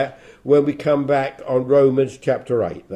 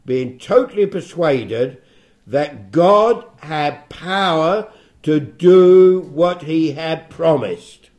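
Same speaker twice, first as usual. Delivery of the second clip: scripture reading; 4 dB louder than usual. Acted. Bible teacher reads verses on Abraham's faith to listeners, solemn scripture reading. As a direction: read the verses out deliberately, weighting key words.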